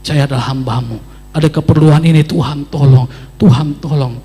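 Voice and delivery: doa keras memohon tolong; seruan doa. Retold or imitated. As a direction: berseru keras kepada Tuhan tengah malam. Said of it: "berteriak, berseru". (berteriak dalam doa di tengah malam)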